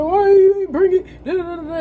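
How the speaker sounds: loud, high-pitched mock dad scolding; retold scolding.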